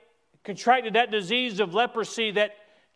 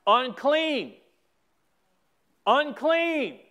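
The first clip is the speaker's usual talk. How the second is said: mock shout; 4 semitones higher, much slower than usual. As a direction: imitate a leper's warning cry without full volume. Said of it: "You would have to shout".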